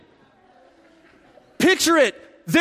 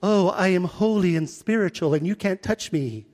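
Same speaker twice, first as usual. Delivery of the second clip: mock holy voice; 3 semitones lower, 3 dB quieter than usual. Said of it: "I don't see Jesus again that".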